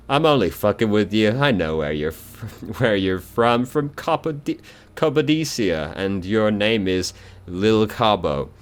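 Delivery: high, mocking dead man's voice; the corpse toying with the lieutenant; teasing corpse. Corpse teases, laughing.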